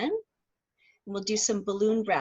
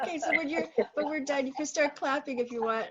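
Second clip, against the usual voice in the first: giggling through the words; laughing; 3 semitones higher, 4 dB quieter, faster than usual. Real, not acted. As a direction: talk while laughing. Teacher giggling while giving instructions.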